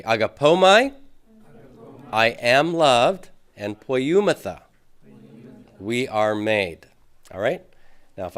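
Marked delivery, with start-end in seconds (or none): 0.0-6.9 loud, slow model for repeating; leading class repetition. Shown as a demonstration. Teacher calls out forms for class to repeat, loud and deliberate. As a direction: call it out for the class to echo. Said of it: "So say that with me".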